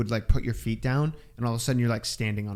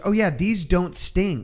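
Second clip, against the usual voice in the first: casual guide; 6 semitones higher, slower than usual. Retold or imitated. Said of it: "she goes".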